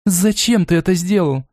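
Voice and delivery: mildly furious reproach; angry. Acted. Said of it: "гневно обрушилась Лона".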